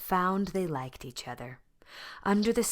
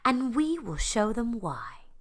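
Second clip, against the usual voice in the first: determined duck; 7 semitones higher, 4 dB louder than usual. A narrator's reading. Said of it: "quacked Mary Ann".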